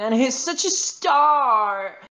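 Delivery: high, slow, smoky diva voice. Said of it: "this is the sound I, speaking in English with my angel voice".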